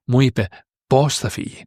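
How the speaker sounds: "πως" emphasized after a short break; stress on πως. Shown as a demonstration. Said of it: "this how is emphasized".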